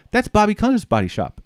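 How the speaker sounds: high-pitched burst of recognition; imitated amazement. Woman recognizes the shop from his directions, amazed. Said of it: "she's totally fucking blown away".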